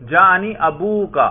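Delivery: ابوکا slowly, with an audible long "oo"; pronounced waw. Shown as a demonstration. Teacher quizzing whether the ending is pronounced, pronounced waw. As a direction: lengthen the middle of ابوکا, a-boo-ka. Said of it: "اس پر ہم تلفظ کرتے ہیں".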